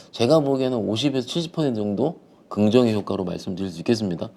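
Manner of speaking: talking around a candy in mouth. Real, not acted. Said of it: "사탕이 좀 물고 있어가지고".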